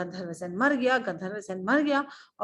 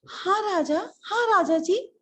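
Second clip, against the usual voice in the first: high, obedient reply; eager minister; 8 semitones higher, 4 dB louder than usual. Acted. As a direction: answer the king's summons hurriedly. Minister comes running to king. (हड़बड़ाए मंत्री का जवाब)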